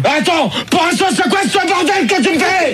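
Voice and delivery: high, indignant protest; exasperated outburst. Real, not acted. Host loses patience with prankish callers, exasperated outburst. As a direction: protest with the pitch shooting up.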